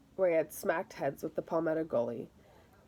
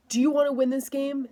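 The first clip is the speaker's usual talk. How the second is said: much higher and louder rallying shout; 7 semitones higher, 7 dB louder than usual. Acted. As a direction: bellow it to fire up the team. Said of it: "Victor shouted".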